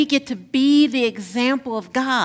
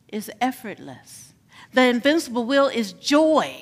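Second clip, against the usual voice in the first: preaching litany. Acted.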